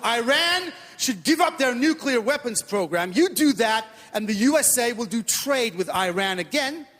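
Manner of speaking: lightly mocked American accent; American official. American government lecturing Iran, lightly put-on American accent. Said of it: "When the American government says".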